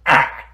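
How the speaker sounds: sudden loud throaty burst; abrupt guttural croak; burp-like noise. Acted. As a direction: let out a demonic burp. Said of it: "That sounded like a burp".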